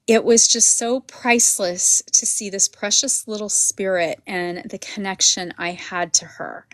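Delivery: choked-up near-whisper, holding back tears; fighting tears, voice dropping to breath; teary-eyed. Real, not acted. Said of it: "I'm getting teary-eyed".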